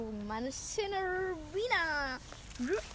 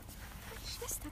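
hushed, much softer whisper, slow; 8 semitones higher, 13 dB quieter, slower than usual. Real, not acted. Girl hears her sister coming, whisper. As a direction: whisper a warning to her friend.

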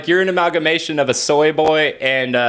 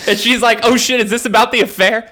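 laughing; 5 semitones higher than usual. Pretend. Wife quote while laughing.

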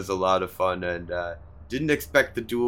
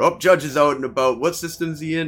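eager excited; 3 semitones higher, 4 dB louder, faster than usual. Retold or imitated. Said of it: "I've done that before".

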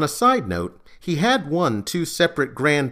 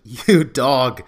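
laughing; 5 dB louder than usual. Acted. Teasing over the phone.

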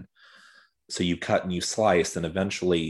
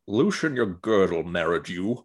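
Connery impression. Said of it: "sitting on this Connery impression".

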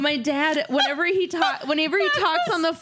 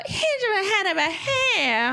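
high, drawn-out drag catchphrase, imitated; a drag star; 8 semitones higher than usual. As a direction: do a slow, high showy impression, laughing. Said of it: "sounds like that drag star thing".

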